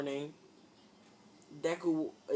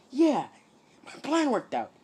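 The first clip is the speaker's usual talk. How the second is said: high, loud proud reply; loud pleased triumph; triumphant; 11 semitones higher, 7 dB louder than usual. Acted. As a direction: boast that the plan worked. Deku triumphant.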